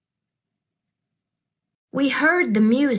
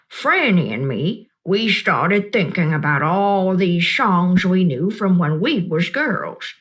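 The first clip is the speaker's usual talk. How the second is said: a lightly voiced old woman, kind and knowing; Gloria Dump; 4 semitones lower than usual. Old woman reassuring the upset child, gently amused.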